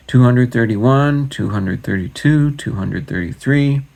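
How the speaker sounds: plain reading voice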